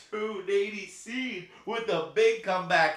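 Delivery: high, loud announcer hype; excited race call. Real, not acted. Streamer calling horse race for chat, excited. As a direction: call the comeback like a sportscaster.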